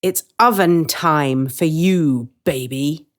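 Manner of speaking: a hint of a gleeful witch; menacing witch. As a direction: taunt him slowly. Witch luring Hansel.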